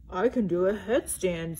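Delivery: shy whispered boast; bashful bear whispering his trick. Acted.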